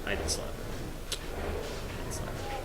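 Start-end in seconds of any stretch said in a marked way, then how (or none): 1.1-2.6 slow whispered aside; a slow, hushed whisper. Real, not acted. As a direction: breathe it out slowly as a hushed denial. Denying the slap joke.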